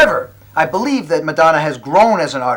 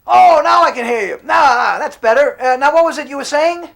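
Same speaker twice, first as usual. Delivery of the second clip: relieved shout; 9 semitones higher than usual. Acted. Caller finally hears.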